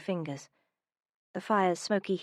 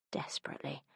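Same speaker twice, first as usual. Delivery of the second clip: a breathless whisper on one word; hushed, longing, almost no voice; 4 semitones lower, 10 dB quieter, faster than usual. Acted. Man whispers his desire to Minerva, breathless whisper.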